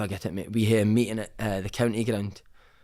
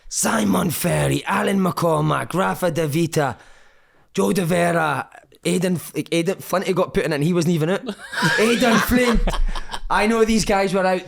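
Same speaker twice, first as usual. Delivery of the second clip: higher, louder, slow naming and shaming of players; angry radio interview; 7 semitones higher, 5 dB louder than usual. Retold or imitated. Manager on local radio naming the players, slow indignant voice. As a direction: list the culprits one by one with disgust. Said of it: "He's getting interviewed".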